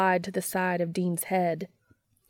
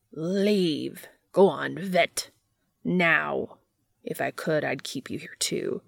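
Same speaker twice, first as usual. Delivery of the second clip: lightly voiced commanding entity; menacing entity.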